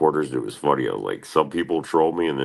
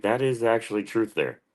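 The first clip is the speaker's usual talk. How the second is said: higher, quicker mock voice; mock agreeing; 6 semitones higher than usual. Answering Joe on the show, quick high mock agreement. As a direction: toss it off fast and pitched up. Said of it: "I'd be like".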